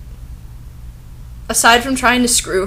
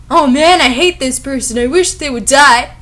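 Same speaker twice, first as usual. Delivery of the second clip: mock gushing teen; 4 semitones higher, 4 dB louder than usual. Mock quote of the character.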